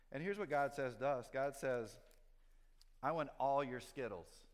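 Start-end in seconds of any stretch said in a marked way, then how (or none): 3.0-4.5 louder, slow, grasping demand; demanding God. Shown as a demonstration. Preacher showing the wrong picture of God, loud slow demand. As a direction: boom it out like a greedy God. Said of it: "that's not what God says at all".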